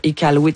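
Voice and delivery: Iqaluit with a plain French k; pronounced as written. Shown as a demonstration. Host choosing the clearer form for listeners, Iqaluit as written with a k. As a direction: say Iqaluit just as it is spelt. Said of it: "comme on le voit écrit".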